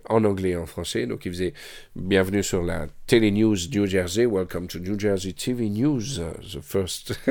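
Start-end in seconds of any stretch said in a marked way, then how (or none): 2.0-7.2 slow, lightly voiced Haitian accent of a TV host; a light take on a Haitian TV host welcoming viewers; Haitian presenter accent. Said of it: "Avec un accent, tu vois, un peu comme ça".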